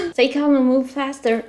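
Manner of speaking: a laugh breaking into the line. Real, not acted. Lost player repeating the game advice, laughing. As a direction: chuckle through it, amused at yourself. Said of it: "yeah, I'm lost".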